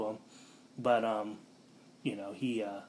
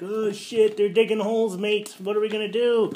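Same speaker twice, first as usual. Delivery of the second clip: higher, louder panicky British voice; mock British panic; 9 semitones higher, 8 dB louder than usual. Team learns about holes, mock British panic. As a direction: panic like a flustered Brit.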